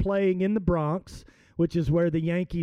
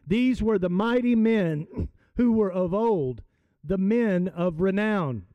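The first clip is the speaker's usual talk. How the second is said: scripture reading. Acted. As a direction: read the verses to the congregation. Reads scripture aloud to congregation.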